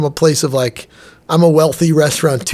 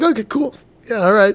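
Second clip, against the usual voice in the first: little excitement and panic; 5 semitones higher than usual. Retold or imitated. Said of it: "little excitement, little panic".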